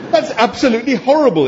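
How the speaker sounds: high, loud, squawking outrage; appalled exclamation. A narrator's reading. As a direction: exclaim in horror, pitch shooting right up. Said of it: "exclaimed Arthur".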